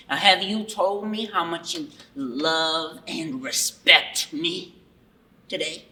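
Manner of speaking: grandiose self-proclaimed overlord; booming megalomaniac ruler addressing subjects; dark lord. Acted. Plays self-crowned overlord Jeff.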